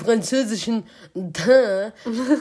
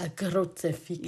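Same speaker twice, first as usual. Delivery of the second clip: Bavarian; 5 semitones lower, 9 dB quieter, slower than usual. Pretend. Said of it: "dieses Bayerisch war grad richtig".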